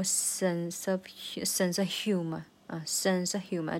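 "sense" leaned on, "of" reduced; stress on sense. Shown as a demonstration. Teacher isolating the phrase, stress on "sense". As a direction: stretch "sense", slip lightly through "of". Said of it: "这个sense也是个重读".

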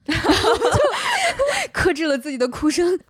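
laughing high through the words; a burst of real laughter spilling into speech. Real, not acted. Laughing at her own thought.

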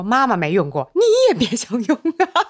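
high, teasing mom voice; mock stern mom. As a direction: play a stingy mom, joking. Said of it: "妈妈说".

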